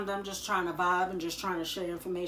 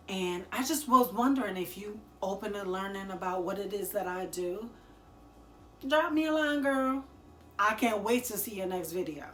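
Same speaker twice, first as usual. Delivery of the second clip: fake friendly sales pitch; 3 dB louder than usual. Shown as a demonstration. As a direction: play a bubbly stranger pushing a side hustle. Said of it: "I would say".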